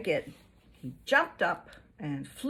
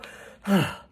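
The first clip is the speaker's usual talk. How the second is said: sigh; 4 dB louder than usual. Shown as a demonstration. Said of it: "you go".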